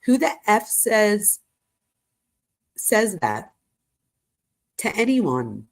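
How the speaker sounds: slow, broken-up emphasis on an all-caps text; emphatic all caps. Retold or imitated. Girlfriend texting boyfriend in all caps, mildly emphatic. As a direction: read it out in separated, incredulous chunks. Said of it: "and then all in caps".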